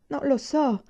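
sincere answer. A narrator's reading. Arrested student answers his teacher, sincere. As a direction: own up honestly and simply. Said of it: "risposi con sincerità".

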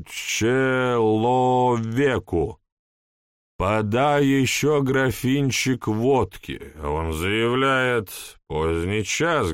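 put-on slow, tipsy rambling drunk; town drunk. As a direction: ramble like a half-drunk man. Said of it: "полупьяный голос".

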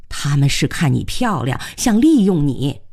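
urgent plea, slowing on the last phrase; anxious warning. Acted. Aunt warning her pretty niece, anxious. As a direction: press the warning home anxiously. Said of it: "慧娟急了".

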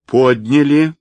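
a master ordering servants about; commanding order. A narrator's reading. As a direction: bark the order from above. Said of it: "повелительно приказал он".

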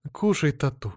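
gently urging husband to eat; caring. Acted. Wife lovingly pushing a plate to her husband, caring. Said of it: "заботливо сказала жена".

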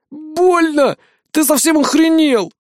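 high, whining cry of pain. A narrator's reading. Shot young thug whines at the captain. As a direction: whimper it like a hurt kid. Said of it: "захныкал он".

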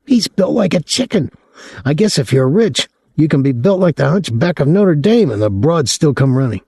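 put-on high, excitable young man's voice; a gawking kid, pitched high; young Claude, leering. A narrator's reading. Claude mocking Boylan.

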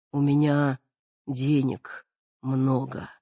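short of breath, slow and weak. Acted. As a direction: gasp it out, breathless. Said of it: "говорила мать с одышкой".

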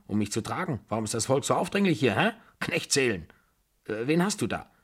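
lightly voiced bossy old lady giving orders; a touch of the crotchety, commanding grandmother; imperious old aunt.

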